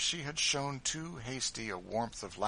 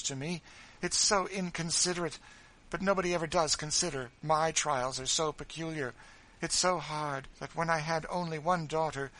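higher and louder, a whiny mock-tearful complaint; self-pitying sobbing; 6 semitones higher, 5 dB louder than usual. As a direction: wail about your trials to win pity. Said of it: "began sobbing".

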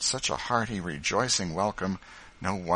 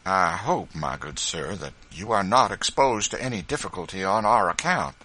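anxiously; 5 dB louder than usual. Acted. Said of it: "said George anxiously".

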